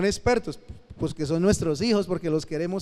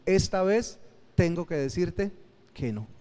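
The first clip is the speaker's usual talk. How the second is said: calm firm no. Shown as a demonstration. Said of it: "Pero no tengo que gritar".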